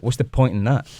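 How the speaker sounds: put-on New York accent. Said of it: "let me hear your New York accent".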